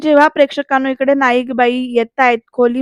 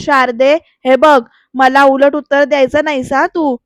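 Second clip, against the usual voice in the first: mild mock shout, a little raised; retold yell; 5 dB louder than usual. Grandmother forbidding Sharda to answer back, mild retold yell. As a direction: imitate a grandmother telling someone off. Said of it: "नानी ओरडून म्हणतात".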